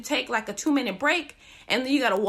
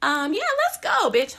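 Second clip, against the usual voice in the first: oversell it, clearly lying; fake enthusiasm.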